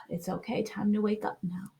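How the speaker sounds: soft whispered wake-up call; hushed, tender whisper; gentle whisper. Shown as a demonstration. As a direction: whisper it to your body like waking a child. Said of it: "And I go".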